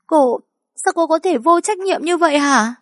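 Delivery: high and loud, near screaming; furious accusation. A narrator's reading. Mother accuses the teacher of negligence, shrill and loud. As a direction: hurl the blame at her.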